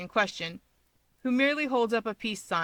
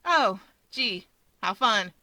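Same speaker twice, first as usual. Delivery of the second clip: flat sarcasm; 4 dB louder, slower than usual. Acted. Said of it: "Hawks heaves a sigh and flatly says".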